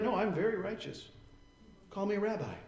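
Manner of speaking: a pious know-it-all waving it away; mock smug. Preacher mocking proud scholars, smug tone. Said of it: "They were like".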